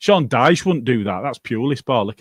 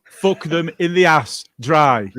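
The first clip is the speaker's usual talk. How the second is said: slow, louder curse at Newcastle; angry rant; 3 semitones higher, 3 dB louder, slower than usual. Real, not acted. Podcast host opening his Auto No Bitter rant, slow and disgusted. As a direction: spit it out slowly, disgusted. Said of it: "the Auto No Better rant".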